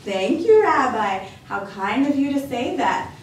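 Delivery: lightly voiced cheerful grandma welcoming a guest; a hint of a bright old lady; old grandmother voice. Baba Brana's voice.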